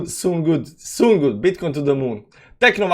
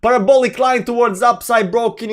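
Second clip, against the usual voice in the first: mock screaming; 7 semitones higher than usual. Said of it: "they've been screaming".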